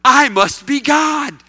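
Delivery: loud, slow, lordly cat declaring itself God; haughty cat voice. Acted. Preacher voicing the cat to the congregation, loud and slow. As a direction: boom it out like a proud cat. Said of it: "and the cat says".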